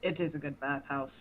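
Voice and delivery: put-on old man voice. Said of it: "I'm losing my old man voice".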